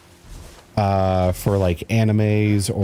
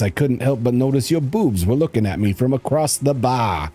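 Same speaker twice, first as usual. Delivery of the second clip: lightly voiced sleazy creep; 3 semitones higher than usual. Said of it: "the pickup line his characters have".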